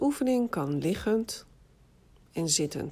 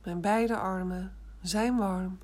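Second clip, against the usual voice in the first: whispered formula; slower than usual. Shown as a demonstration. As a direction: whisper it slowly, for them to repeat. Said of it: "Herhaal maar twee keer". (langzaam gefluisterd)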